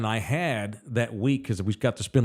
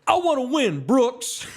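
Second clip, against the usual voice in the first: high-pitched mock tantrum; whiny baby; 12 semitones higher than usual. Player yelling at his manager over a charity game, like a baby. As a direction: imitate a big baby throwing a fit. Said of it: "like a fucking baby".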